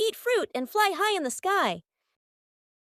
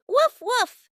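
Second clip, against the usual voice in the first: cheerful mock dog bark; 3 semitones higher, 5 dB louder than usual. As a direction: bark like a happy puppy. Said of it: "Dogs wag their tails when they are happy and say".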